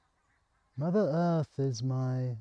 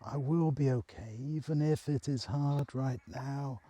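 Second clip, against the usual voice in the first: soft breathy whisper, barely voiced; whispered self-assurance; 6 dB quieter than usual. Lying on the grass, whispering to herself that she'll be okay. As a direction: whisper it to yourself like a promise. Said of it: "continued saying what had started".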